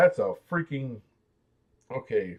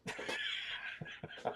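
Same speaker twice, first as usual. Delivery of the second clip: breathy laugh; 17 dB quieter than usual. Real, not acted. Laughs after the impression.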